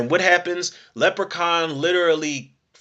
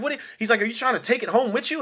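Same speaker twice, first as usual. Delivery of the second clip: higher, fast, mock-pained whine; mock complaint; 8 semitones higher, faster than usual. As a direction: whine at her in a rush.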